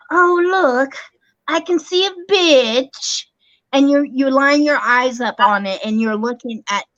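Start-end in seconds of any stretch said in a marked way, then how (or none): 0.1-3.3 TikTok filter voice. Retold or imitated. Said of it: "and they go".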